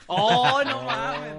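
loud, high laughing outburst; excited shout. Real, not acted. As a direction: blurt it out in delight.

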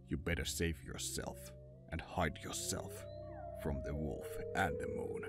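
ordinary delivery

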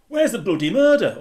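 loud, high mock accent; Jeff impression. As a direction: mimic a colleague demanding his murder, loudly. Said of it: "not in that accent. I hate that accent".

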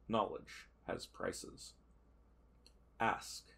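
slow, soft oracle pronouncement; prophet's voice. Acted. Prophet tells the nervous querent the price, slow and hushed. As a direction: intone it like a seer naming the price.

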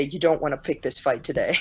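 put-on low, eerie voice far too old for a child; ghostly old voice. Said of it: "he's speaking entirely too old for his age".

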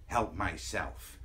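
low, slow, hushed repeat; sigh, then echo it low and slow in disbelief; disgusted echo. Acted. Echoes her remark in disbelief.

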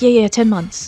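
eager agreement, falling on "ten months"; jumping on it. Retold or imitated. Suspect jumping on the officer's number, imitated quick agreement. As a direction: seize on "ten months" as settled fact. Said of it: "so she jumps on the number".

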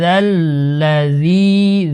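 যাল্লাযী with the zi held one beat, slowly; one alif stretch. Shown as a demonstration. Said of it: "জিতে এক আলিফ টানতে হবে". (যাল্লাযী-তে জি এক আলিফ টানা)

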